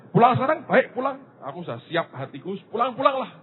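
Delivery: high, urgent cry to God. Retold or imitated. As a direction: plead to be taken home now. Pleading prayer to God retold.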